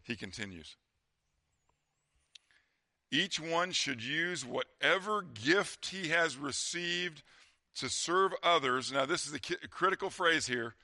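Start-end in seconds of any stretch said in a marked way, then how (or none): 3.1-8.9 slow, deliberate Bible reading; scripture reading. Real, not acted. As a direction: read the verse out slowly and weightily. Reads scripture aloud.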